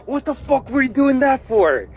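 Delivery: high angry outburst; a sudden high, outraged yell. Retold or imitated. Hunk snapping at his teammate, high outraged yell. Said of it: "good reason to say".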